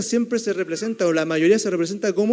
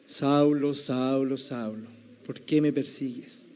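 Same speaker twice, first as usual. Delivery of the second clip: voice from heaven; 3 semitones lower, slower than usual. Acted. Voice Saulo hears on the Damascus road, lightly acted, sinking low. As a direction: call the name gravely, letting it fall away. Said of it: "pero él escucha".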